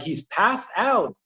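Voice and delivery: high, slow, drawn-out mock yell; retold yelling. Viewer recounting protests at the TV, held-back yelling. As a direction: call it out high, stretching the words. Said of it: "like, yelling".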